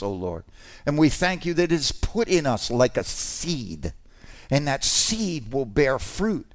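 heartfelt pastor's prayer. Real, not acted. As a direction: pray over the congregation. Closing prayer.

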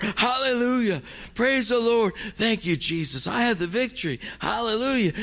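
rising to high-pitched triumphant praise; excited. Retold or imitated. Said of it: "I'm all excited".

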